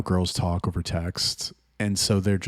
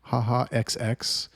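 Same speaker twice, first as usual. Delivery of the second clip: put-on ditzy girl; 4 semitones higher, slower than usual. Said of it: "They're like".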